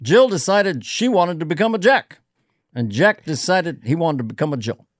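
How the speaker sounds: lightly voiced Obama reading a nursery rhyme; a hint of Obama teaching preschool; Obama as teacher. Comic doing Obama as a preschool teacher, lightly voiced. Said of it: "I did one as Obama as a preschool teacher".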